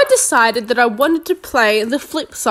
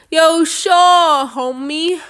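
mock homie voice; 4 semitones higher, slower than usual. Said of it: "I don't know what I'm talking like this".

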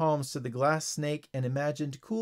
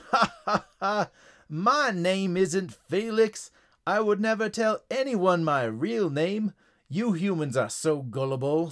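high, loud mocking frog; laugh, then crow in triumph; theatrical villain frog, scornful and high; gloating frog villain; 4 semitones higher, 3 dB louder than usual. A narrator's reading.

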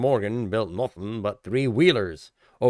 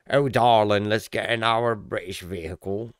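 mock posh Brit. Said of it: "I don't like British".

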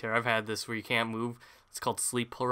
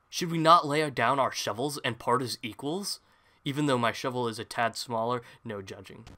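put-on pleading rival in a light Minnesotan accent; a lightly voiced Minnesotan knight asking for peace; northern Minnesotan accent; 4 dB louder than usual. Knight asks his rival to lay down shovels, light Minnesotan accent. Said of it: "a northern Minnesotan accent".

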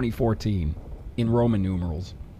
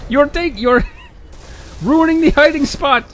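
put-on high-pitched, laughing German Jewish kid accent; a deliberately bad German Jewish kid accent, pitched way up; 13 semitones higher, 4 dB louder than usual. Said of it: "German Jewish kid accent".

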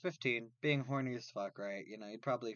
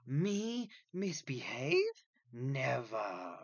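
mock innocence; 2 semitones higher, much slower than usual. Teen told to behave by his mother, mock innocent. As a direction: play the scandalised little angel.

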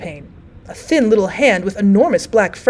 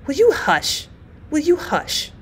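higher-voiced, restrained outcry; crying out; 6 semitones higher, 4 dB quieter, slower than usual. A narrator's reading. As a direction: cry it out high, without shouting. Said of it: "cried the other one".

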